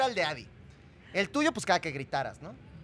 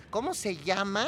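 imitating Fernando; 4 dB quieter, slower than usual. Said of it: "que dijera".

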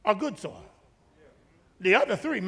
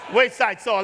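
shouted answer; faster than usual. Real, not acted. Congregation recites soil types.

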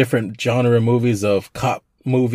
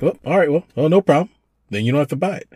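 a light, higher voice for the easygoing buddy; mock cheerful reply; 6 semitones higher, much faster than usual. Buddy brushing off the bar owner, breezy and high. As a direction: play it breezy and high, no problem at all. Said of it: "he's like".

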